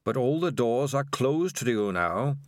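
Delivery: lightly voiced sinister rat king; measured, understated villain voice. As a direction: speak as a many-headed rat king laying out its power. Spider the Rat King speaks.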